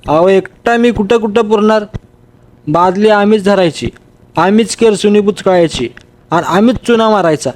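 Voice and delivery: lightly voiced grumbling helper; a hint of the workman griping about his load; complaining workman. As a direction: workman protesting to his boss, mildly whiny. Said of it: "तिरळा डोळा माझ्याकडे रोखून म्हणाला".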